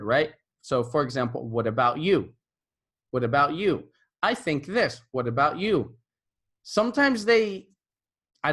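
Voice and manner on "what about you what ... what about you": What about you, with a strong stress on you; stress demo. Shown as a demonstration. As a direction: lead the stress onto the word you. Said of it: "they have to stress a certain word".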